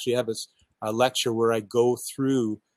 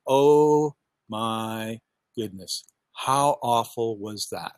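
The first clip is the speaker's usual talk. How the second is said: mock horror; 2 semitones lower, much slower than usual. Imagined cringe at old episode.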